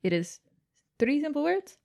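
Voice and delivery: put-on light Italian accent, coaxing a crowd; playful Italian singer addressing the audience. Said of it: "with my Italian accent".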